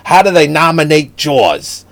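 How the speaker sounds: high, loud, indignant mock rant; impassioned mini speech. Retelling his buddy's speech about Spielberg, mock-indignant. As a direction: plead the case loudly, hammed-up. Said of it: "he gives this little mini speech".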